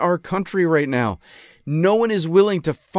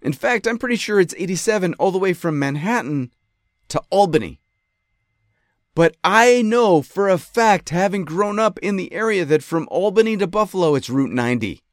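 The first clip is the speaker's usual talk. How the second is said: lawyer addressing the judge; mock courtroom plea; 3 dB louder than usual. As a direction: plead it like to a judge. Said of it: "I say".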